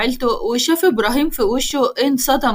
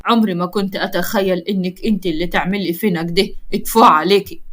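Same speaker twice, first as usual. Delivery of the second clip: disgusted; 5 semitones lower than usual. Acted. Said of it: "قال لها بقرف".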